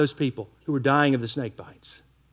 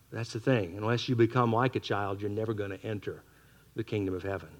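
much softer and lower, calm and patient; gentle correction; 8 semitones lower, 11 dB quieter than usual. Acted. Jesus answering the proud man, softly and patiently. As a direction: quietly let the truth land.

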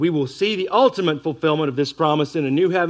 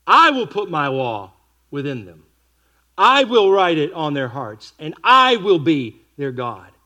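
slow, louder proclaiming of the promise; scripture reading; 6 dB louder, slower than usual. Acted. Preacher reading God's promise aloud, slow and louder.

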